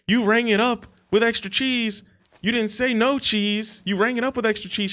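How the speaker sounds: high voiced defensive cook; mock cook. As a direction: play the cook defending himself. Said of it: "he's like".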